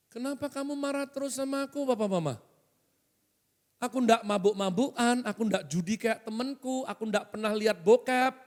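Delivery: lightly voiced child pleading with parents; complaining child. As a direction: plead like a wronged kid. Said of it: "kata seorang anak".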